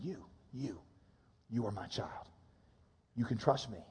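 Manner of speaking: quiet whisper of divine love; soft voice of God. Acted. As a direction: speak it like a loving father. God's voice spoken softly.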